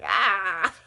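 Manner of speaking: loud mock cry of horror; a short, loud "ah" of disgust, acted out; imitated startled cry; retold yelp. Retold reaction to the dog.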